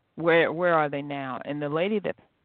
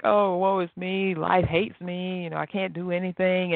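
mock self-pity; 4 semitones higher than usual. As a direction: drag it out like a sulky martyr. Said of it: "you're boo-hooing".

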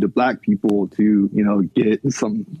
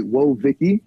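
Whoa Vicky impression; 2 semitones higher than usual. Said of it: "occasionally sound like".

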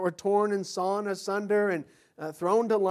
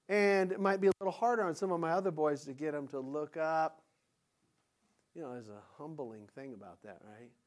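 usual speaking voice

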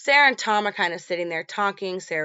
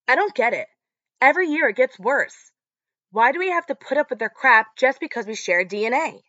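upset outburst; 6 semitones higher, 4 dB louder than usual. Retold or imitated. Max upset with dad.

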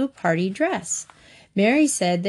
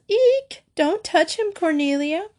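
squeal; 10 semitones higher than usual. Acted. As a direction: shriek like a girl who saw a worm. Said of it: "Mary squealed".

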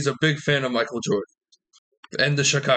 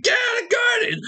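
shouted phrase. Pretend. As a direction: yell it across the street. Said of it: "walking down the street".

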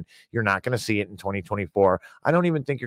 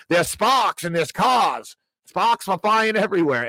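excited; 10 semitones higher, 5 dB louder than usual. Real, not acted. Joking aside, voice up.

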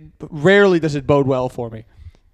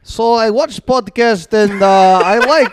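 Polish grandpa; 3 semitones higher, 5 dB louder, slower than usual. Retold or imitated. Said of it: "is Polish".

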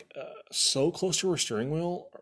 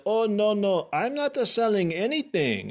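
higher, lightly voiced flustered census worker; mock census worker; 8 semitones higher, 4 dB louder than usual. Mocking the census worker who denies selling anything. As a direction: mimic him backing off in a higher voice.

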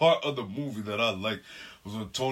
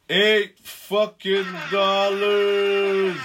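outraged; 10 semitones higher, 10 dB louder, much slower than usual. Real, not acted. Outraged about popcorn price.

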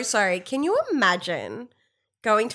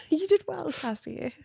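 laughing praise; 8 semitones higher, 7 dB quieter than usual. Acted. Mock consoling friend.

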